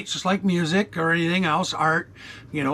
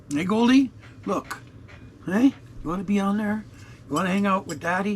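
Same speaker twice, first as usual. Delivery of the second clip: cat voice; 5 semitones higher than usual. Real, not acted. Talking to his cat.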